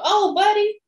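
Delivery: high, drawn-out mocking "oh"; mocking pity. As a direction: tease him like a crybaby. Mocking a whining zombie victim.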